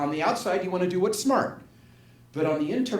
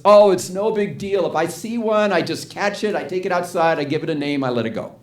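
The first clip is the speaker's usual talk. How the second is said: retold breezy unconcern; 5 dB louder than usual. Woman six months later on spiders, acted breezy unconcern. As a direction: toss it off as a routine, acting her. Retells her cheerful unconcern now.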